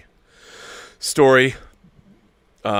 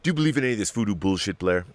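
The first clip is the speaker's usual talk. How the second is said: movie quote; faster than usual. Retold or imitated. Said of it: "John Carpenter's The Thing".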